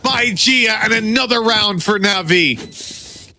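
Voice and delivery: high, thrilled clutch call; excited caster call. Real, not acted. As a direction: celebrate the clutch. Clutch won, casters react.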